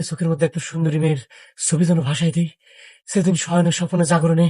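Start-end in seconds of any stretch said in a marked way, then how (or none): 3.1-4.5 worked-up lovesick outpouring, a little loud; too loud for night. Acted. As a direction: pour out the confession, forgetting to keep it down. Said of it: "আস্তে কথা বলেন না".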